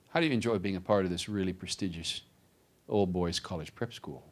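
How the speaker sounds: softly ominous authority figure; menacing hostel master. Retold or imitated. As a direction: lightly imitate a master toying with a pupil. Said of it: "governmental wolf bares his teeth".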